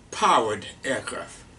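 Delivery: "powered" set out clearly, pitch falling; stress on powered. Real, not acted. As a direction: lean on the word "powered". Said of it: "I really emphasized the word".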